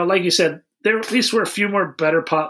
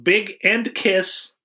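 reading the note slowly; 4 semitones higher, much slower than usual. Retold or imitated. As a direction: drag each word out slowly. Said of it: "And then I wrote".

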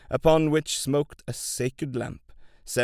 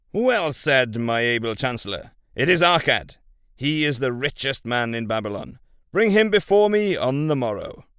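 loud, commanding royal voice; booming warrior king; 5 dB louder than usual. Acted. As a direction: boom out the king's orders.

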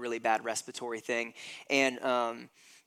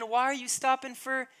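a hint of frantic, high-pitched impatience; lightly voiced Jairus pleading to hurry; impatient father; 11 semitones higher, 4 dB louder than usual. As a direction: Jairus pressing Jesus to hurry, mildly frantic. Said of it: "what's happening with Jesus and Jairus".

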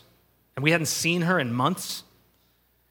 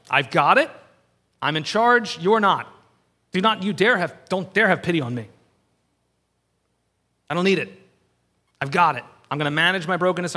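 louder, insistent mock refusal; stubborn defiance; 4 dB louder than usual. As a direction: push help away, proud and stubborn. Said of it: "We're like".

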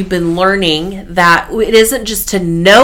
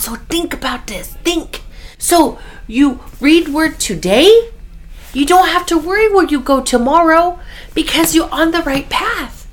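put-on Korean mom accent; 7 semitones higher than usual. Son voicing his Korean mom's advice in the car, in her accent. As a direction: still imitating mom's Korean accent, higher. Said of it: "she says in her accent".

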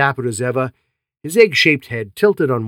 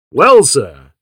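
condescending; 9 dB louder than usual. A narrator's reading. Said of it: "said Japp condescendingly".

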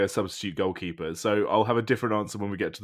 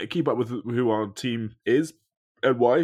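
while sipping a drink; 2 semitones higher, 4 dB louder, slower than usual. Real, not acted. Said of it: "Sorry, I'm drinking a beer".

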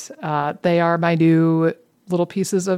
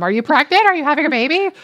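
high, eager mock questioning; nosy commenters; 7 semitones higher, faster than usual. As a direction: imitate commenters pestering with excited questions. Mimicking nosy online commenters.

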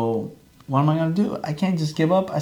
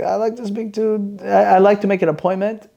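raised put-on caller voice; disguised voice; 5 semitones higher than usual. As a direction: pretend to be a new patient. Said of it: "I changed my voice".

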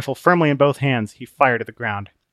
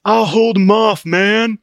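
loud relaxed dude voice; Open-Minded, laid-back surfer; 10 semitones higher, 8 dB louder, slower than usual. Acted. Open-Minded covering Christian, laid-back. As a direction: cover him with easy bravado.

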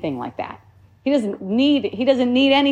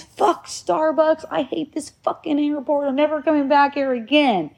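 retold tantrum; 4 semitones higher than usual. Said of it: "he's screaming the whole time and cussing".

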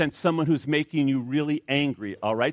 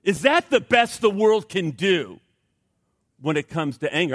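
higher, louder, slow disbelieving jab; incredulous scoff; 3 semitones higher, 3 dB louder than usual. Retold or imitated. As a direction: scoff at the weak methods. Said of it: "I look at this and I say".

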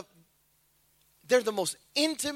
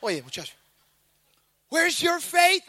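put-on Latino accent. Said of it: "I think he was Latino".

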